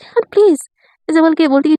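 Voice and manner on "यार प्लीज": higher-pitched, lightly annoyed protest; mild angry hiss. Acted. Sandhya objects to Jia, mildly angry and pitched higher. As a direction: scold her friend under her breath, mildly irritated. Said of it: "गुस्से से देखती बोलती".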